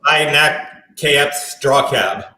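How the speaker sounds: English spoken in reverse; backwards speech. Shown as a demonstration. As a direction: say the sentence backwards, slowly. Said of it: "I can speak backwards".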